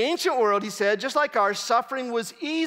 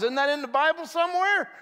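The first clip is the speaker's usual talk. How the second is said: mock question; 7 semitones higher, faster than usual. Mocking popular belief.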